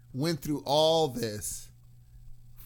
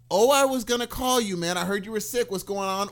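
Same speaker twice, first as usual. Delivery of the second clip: gushing; 4 semitones higher, 4 dB louder than usual. Retold or imitated. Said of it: "Do you prefer the gushing".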